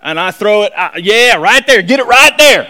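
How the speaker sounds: put-on country hick fisherman; hick accent. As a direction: do a hammed-up hick angler talking fishing. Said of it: "I put a Hick accent on that".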